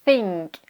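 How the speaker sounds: tongue between teeth to start think; airy TH in think. Shown as a demonstration. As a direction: think said alone, air escaping on TH. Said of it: "on sort un petit peu d'air". (think avec un TH bien soufflé)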